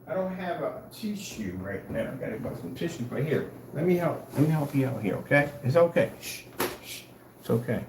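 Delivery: mock comforting. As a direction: pretend to soothe a baby, hushed. Pretends to comfort crying viewer.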